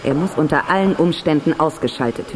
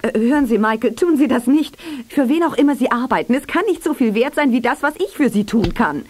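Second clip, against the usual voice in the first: anxious bargaining; nervous pleading; 5 semitones higher than usual. Acted. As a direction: talk fast to save yourself. Tanja bargaining at gunpoint.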